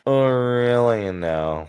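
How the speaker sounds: hammed-up know-it-all internet commenter; Reddit-ass voice. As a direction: stretch it out slowly like an insufferable Redditor. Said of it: "most Reddit ass voice imaginable".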